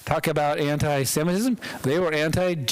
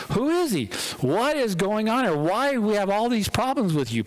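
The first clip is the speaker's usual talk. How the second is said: lightly acted bafflement, pitched up; exasperated commander; 5 semitones higher than usual. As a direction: demand answers in a raised pitch.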